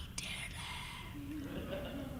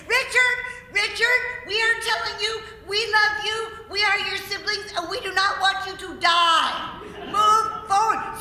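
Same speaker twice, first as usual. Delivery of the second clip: urgent pleading; 6 semitones higher than usual. Retold or imitated. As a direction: beg him on, raised and insistent. Siblings urging Richard on.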